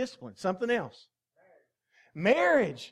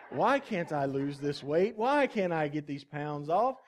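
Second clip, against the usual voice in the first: much lower, slow mock complaint with a laugh in it; gender-neutral voice; 6 semitones lower than usual. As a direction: drop the voice low and drag the moaning out. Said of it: "say it in a gender-neutral voice like this one".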